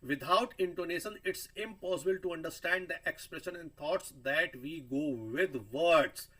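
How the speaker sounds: slow, deliberate reading of a definition; slow dictation. Shown as a demonstration. Teacher reading the slide's definition to the class, slowly. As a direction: read it out word by word for students to copy.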